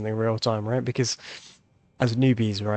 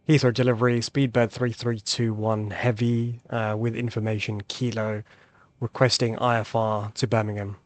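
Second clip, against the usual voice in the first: pilot radio call. Shown as a demonstration. Pilot radio call, second try.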